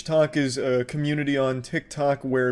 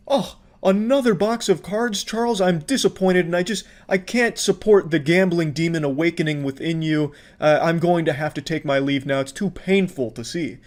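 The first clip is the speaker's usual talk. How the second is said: lightly hammed-up disappointment, higher at the start; mock pseudo-therapist; 3 semitones higher than usual. Online critic lamenting Charles's supposed gambling, mock-disappointed pseudo-therapist. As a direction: imitate a let-down armchair therapist. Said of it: "some kind of pseudo-therapist role".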